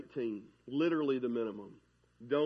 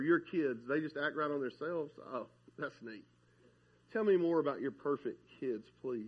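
sarcastic fake interest; 2 semitones lower, 4 dB quieter than usual. Mocking envious fake praise.

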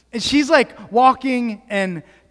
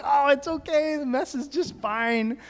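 soft parental cooing, starting higher; retold reassurance; 4 semitones higher, 6 dB quieter than usual. Parent retelling comforting the baby over the mess, softly reassuring. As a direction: soothe a baby gently, melting a little.

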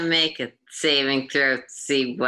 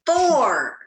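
high, loud falling cry; mock-triumphant shout; 10 semitones higher, 3 dB louder than usual. Real, not acted. Player announcing a poor dice roll, high falling shout. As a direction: belt out the bad roll.

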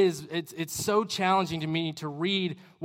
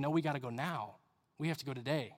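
low, hushed urging; quiet insistence; 3 semitones lower, 10 dB quieter, faster than usual. Acted. Jesus answering a stalling follower, quietly insistent. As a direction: press softly, voice dropped low.

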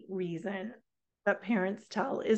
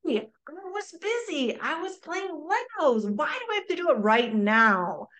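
higher, lightly voiced whiny kid; child fighting back; 5 semitones higher than usual. Child arguing back to parent about Legos, mock whiny. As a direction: talk back like a defensive kid. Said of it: "They will immediately start fighting back".

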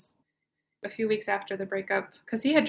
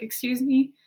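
louder call for attention; mild retold shout; 4 semitones higher, 5 dB louder than usual. Retelling calling to the cashier to escape him, mild mock shout. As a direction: call out to be seen, a touch raised. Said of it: "I shout to the cashier".

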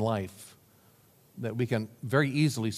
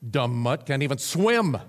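a hint of a sour old grump; grumpy dismissal; 3 dB louder than usual. Pessimist belittling the neighbour's dog, sour. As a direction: sneer at the dog, slightly louder. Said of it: "said the pessimist".

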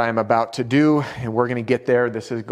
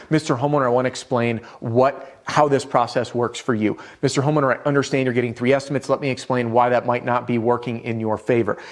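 authoritative. Shown as a demonstration. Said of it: "This is authority".

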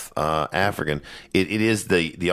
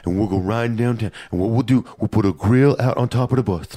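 put-on drunk's big idea; 3 semitones higher than usual. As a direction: sell the crazy party plan like a wasted buddy. Voicing a drunk with ideas.

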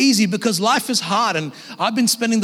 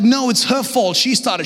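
put-on squabbling child; 5 semitones higher than usual. Child's squabble retold by father.

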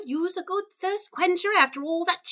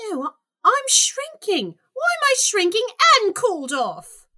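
louder, rising panic; alarmed as she shrinks; panicked; 7 semitones higher, 7 dB louder than usual. Acted.

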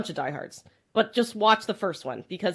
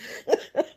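smoker's rasp; 5 dB quieter than usual. Real, not acted. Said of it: "I sound like I have a smoker's cough".

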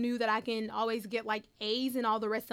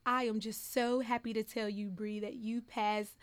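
drawn-out reveal; slower than usual. Retold or imitated. Teacher's slow reveal of good news.

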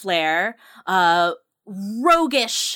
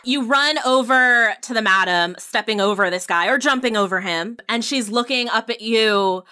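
usual speaking voice

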